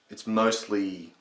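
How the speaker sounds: usual speaking voice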